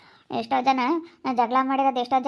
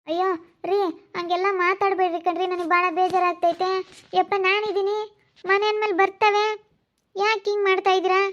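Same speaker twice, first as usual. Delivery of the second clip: anxious pleading; 6 semitones higher than usual. Acted. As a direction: plead with him to stop talking like that. Wife begs husband not to despair. (ಗಂಡನನ್ನು ಗಾಬರಿಯಿಂದ ಬೇಡಿಕೊಳ್ಳುವ ಜೋರು ದನಿ)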